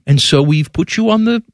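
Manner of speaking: put-on polite New Zealand accent; imitated New Zealand officer's accent. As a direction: break bad news in a mock New Zealand accent. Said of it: "stop doing this accent".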